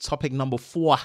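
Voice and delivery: poor attempt at Boston accent. Announcing the final topic on a show, a poor boston accent attempt. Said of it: "That's just my poor attempt of a Boston accent".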